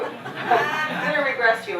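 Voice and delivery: drawn-out, laughing hypnotist voice; slow mock hypnotist. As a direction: stretch it out like a cheesy hypnotist while laughing. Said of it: "he put on this really, ooh, you know, music".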